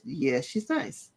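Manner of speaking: slow, sincere "Yeah, she's nice." dropped low and gentle; genuinely. Retold or imitated. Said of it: "And she genuinely says".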